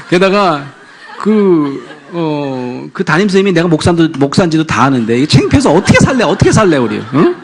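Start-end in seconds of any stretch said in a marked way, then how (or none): 2.9-7.3 louder, quicker fretting; mock flustered complaint. Wife fretting to husband about the teacher, loud. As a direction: fret about the shame.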